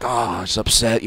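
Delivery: slow, mildly mopey imitation; sulking like a kid. Storyteller imitating Bill arriving upset, slow mock sulk. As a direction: drag it out like a mildly sulky kid. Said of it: "kicking dirt like a kid".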